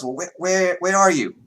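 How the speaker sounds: high, put-on accent, urgent question; Vera in wrong accent. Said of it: "that's the wrong accent for Vera".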